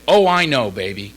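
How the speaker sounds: mock loud reply, dropping off at the end; loud retold reply. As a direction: imitate a sponsor's loud, knowing comeback. Donald's offhand reply retold.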